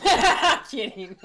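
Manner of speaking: slow giggly "just kidding"; laughing. Real, not acted. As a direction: laugh it off, teasing. Teasing after a joke.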